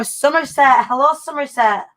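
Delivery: lightly put-on Somerset farmer accent; farmer's accent. Host greets Somerset viewers in a playful farmer's accent. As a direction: greet them in a mock West Country farmer's accent. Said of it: "In my best farmer's accent".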